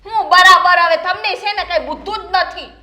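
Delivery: loud indignant outburst; sharp scolding that opens loudest. Acted. Daughter-in-law complains about being answered back, indignant. Quarrel over retold insult.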